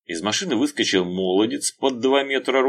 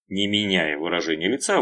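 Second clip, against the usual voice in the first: ordinary delivery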